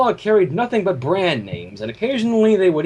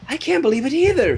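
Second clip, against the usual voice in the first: Mrs. Cake voice; 8 semitones higher than usual. A narrator's reading. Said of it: "she said".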